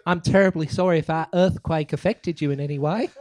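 mock-polite New Zealand apology; New Zealand accent. Guest apologising for an earthquake, mock New Zealand accent. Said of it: "with my New Zealand accent".

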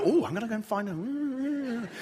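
mock eager, about to go hunt him down; eager curiosity. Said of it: "Now I go".

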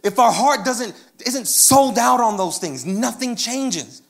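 emphatic, insistent pulpit delivery; fervent preaching. Real, not acted. Preacher urging listeners that the heart must believe, fervent. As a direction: drive the point home to the congregation.

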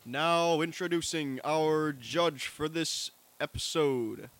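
slow, drawn-out announcer intro; big announcer. Pretend. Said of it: "I'm also doing the big announcer voice".

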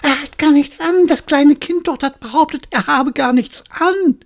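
high, excited chatter; crowd spreading it. Acted. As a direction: pass the news on eagerly.

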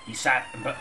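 sudden high break; startled. Acted. Narrator startled mid-sentence by a noise. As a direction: jump as the noise cuts you off.

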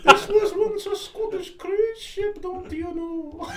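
slow, very high Scottish ghost wail; hammed-up falsetto ghost with a Scottish accent. Ghost telling of the Scottish cruise ship, high Scottish wail. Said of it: "Scottish again".

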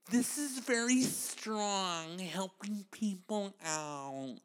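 slow, soft, fake-earnest; mock solemn. Comic mocking fake-earnest helpers, slow and soft. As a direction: say it like a pious caption.

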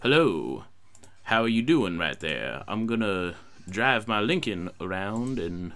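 lightly voiced celebrity impression. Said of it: "In the words of the late Charlie Loudon".

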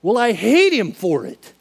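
loud, slow anguished cry; acted hurt, stretched out high and loud; retold tearful outburst. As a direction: pour out the hate as if near tears. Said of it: "And I'm just crying".

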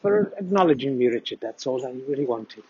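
lightly voiced Welsh fan wanting his name heard; Welsh accent. Brian thanks Richard for reading his email, in a light mock Welsh accent. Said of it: "Good Welsh accent though, mate".

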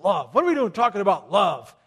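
loud, scoffing macho guy; mock the guys who balk at love; hammed-up tough guy scoffing at love. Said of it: "They're like".

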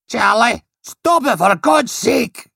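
shrill, high pleading scream. Acted. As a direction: scream at him to stop. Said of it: "The floral battleship screamed".

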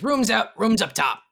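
a barkeep pointing guests upstairs. Acted.

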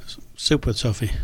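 whispered pun. Real, not acted. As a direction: breathe it out under your breath. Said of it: "it's alliteration".

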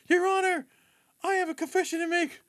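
high, melodramatic courtroom confession; dramatic actress voice. Retold or imitated. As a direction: plead like a wronged damsel. Actress in dinner show.

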